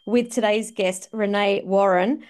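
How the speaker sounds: bright podcast host welcome; upbeat show opener; host intro read. Acted. Host opens the episode.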